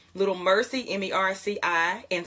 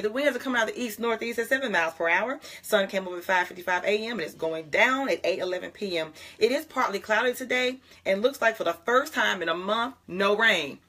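meteorologist voice; 3 semitones higher than usual. Shown as a demonstration. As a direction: play the TV weather forecaster. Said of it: "when I talk fast, I sound more like a meteorologist".

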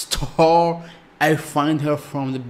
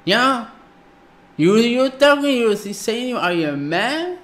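heated outburst; 8 semitones higher, 3 dB louder than usual. Real, not acted. Shouting at the TV show.

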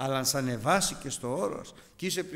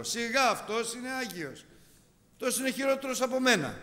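higher, loud, quick sneering accusation; accusing devil; 7 semitones higher, 6 dB louder than usual. Retold or imitated. The devil accuses a man before God, sneering and quick. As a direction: whisper poison against the man. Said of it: "του λέει".

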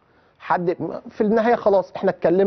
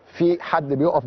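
slow demonstration; much slower than usual. Shown as a demonstration. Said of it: "بص، في حد بيقف".

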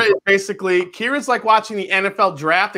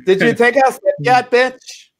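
put-on Valley Girl accent; 6 semitones higher, 4 dB louder than usual. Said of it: "Valley Girl accent".

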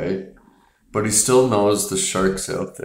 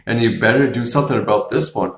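imitating a heated sheriff, a bit louder; mild mock outrage at the council, a touch louder; heated warning; 3 semitones higher, 4 dB louder than usual. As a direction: pound the table and warn the council. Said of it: "He's like".

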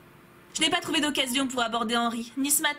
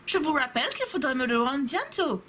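a faint English-German lilt; barely hint at the teacher's foreign accent; teacher's put-on accent. Teacher reminding the class of the deadline, faint accent. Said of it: "mon mélange d'anglais et d'allemand".

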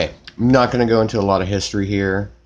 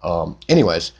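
talking round a wad of gauze in the mouth. Real, not acted. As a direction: mouth stuffed with gauze after a tooth pulled. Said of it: "my voice sounds really weird, like I have a bunch of stuff in my mouth".

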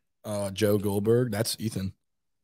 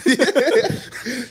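laughing; 5 dB louder than usual. Real, not acted. Joking after calling him terrible.

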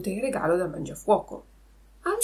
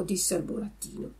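ordinary delivery, nothing marked

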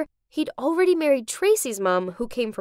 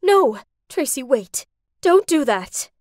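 louder pleading call; mom's yell; 5 dB louder than usual. Acted. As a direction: stop her before she leaves. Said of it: "my mom yelled".

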